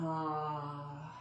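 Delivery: low, soft exhale sigh; dramatic sigh. Shown as a demonstration. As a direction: sigh out softly on the fold. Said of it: "Exhale, slow swan dive".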